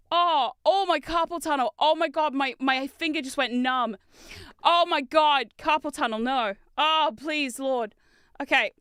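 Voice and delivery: loud, dramatic moaning in pain; aching, overwrought lament; pained groaning. Real, not acted. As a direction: complain through a cramping hand. Finger numb from prying.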